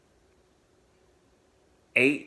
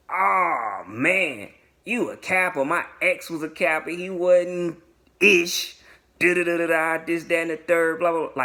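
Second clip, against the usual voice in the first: mock rant, higher and running on; going in on him; 4 semitones higher than usual. Date reacting to his being a Kappa, mock ranting. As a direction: imitate her tirade, trailing into blah-blah. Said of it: "Like, she going in on me".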